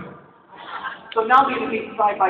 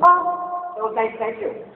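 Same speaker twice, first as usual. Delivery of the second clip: put-on Minnesota accent; 3 semitones higher, 3 dB quieter, much slower than usual. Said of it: "That's an orgasm in Minnesota".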